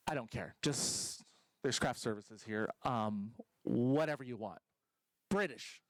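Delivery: low, lazy don't-care voice; bored dialect coach. Retold or imitated. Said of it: "lackluster dialect coach".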